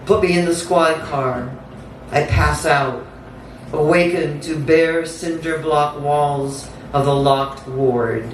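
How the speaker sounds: measured, incantatory spoken-word delivery; dramatic poem read aloud; poetry reading. Acted. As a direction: recite it in deliberate phrases with pauses between.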